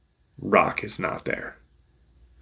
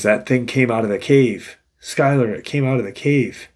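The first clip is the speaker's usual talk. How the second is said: acted insistence, raised pitch, pushing louder; urgent retelling; 4 semitones higher, 4 dB louder than usual. Injured friend telling Skylar what came out, urgent and insistent. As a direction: press the point as a frightened witness would, lightly acted.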